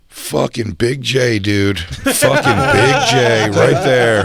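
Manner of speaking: put-on slow, slurred drunk fan calling out. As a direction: drag it out like a hammered fan. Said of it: "this guy's just like".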